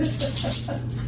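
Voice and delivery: nervous laugh. Real, not acted. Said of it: "I can't stop laughing".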